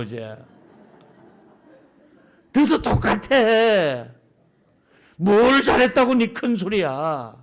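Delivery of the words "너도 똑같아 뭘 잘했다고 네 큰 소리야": drawn-out scornful rebuke; God scolding. Acted. God tells Jacob he is no better, drawn-out scolding. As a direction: put him in his place, stretching the words. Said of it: "이러면서 하나님이".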